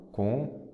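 "com" set apart as a single syllable. Shown as a demonstration. Teacher splitting a word for students, "com" said as a separate syllable. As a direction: say "com" alone, as one detached syllable. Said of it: "aí você separa em si".

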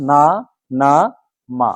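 না, না, মা said as separate syllables, each with a long a. Shown as a demonstration. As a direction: read না, না, মা slowly with a clear a. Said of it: "এই তিনটা বর্ণ আবার এগুলির মতো কি গ্রহণ করবে?". (আ-কার যোগে না, না, মা উচ্চারণ)

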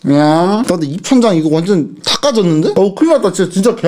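muffled through fingers; speaking behind hand; hand over mouth. Real, not acted. Seen 3: Hand covers mouth throughout while he complains about burnt palate.

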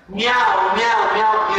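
sing-song cat meows; playful cat meowing. Shown as a demonstration. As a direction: meow meow like a cat. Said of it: "decimos como gato".

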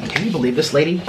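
breathless after eating; words between heavy breaths. Real, not acted. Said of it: "I'm out of breath".

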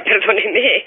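a little embarrassed laugh, then sorry; laughing apology. Real, not acted. Taxi operator to caller, apologising while laughing. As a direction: apologise through a real laugh.

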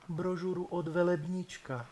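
put-on high, soft girl's voice; timid girl. Bride answers shyly in a high soft Ostrava girl's voice. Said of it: "Ostravsky by to mohlo znít".

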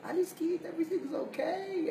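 put-on calm a frightened child; comforting hush; soothing. Shown as a demonstration. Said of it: "It's telling that midah".

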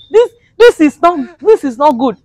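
high, pleading protest against spelling; mock-wounded outcry; mock outrage. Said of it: "It's very hot me".

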